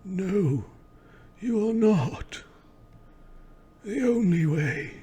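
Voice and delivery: high, slow dismissive villain; theatrical villain voice. Acted. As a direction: sneer it down from on high. Figure argues with the ghost.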